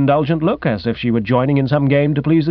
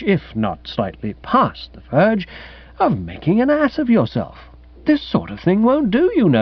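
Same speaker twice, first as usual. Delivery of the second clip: put-on airy young gentleman; 3 semitones higher than usual. Guest lecturing his accusing host, airily reproving. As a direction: reason with him in airy, superior tones.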